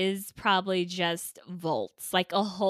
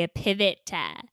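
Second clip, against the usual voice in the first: mock Italian. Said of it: "as the Italians would say".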